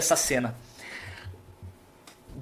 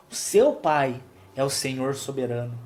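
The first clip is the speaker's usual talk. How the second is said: ordinary delivery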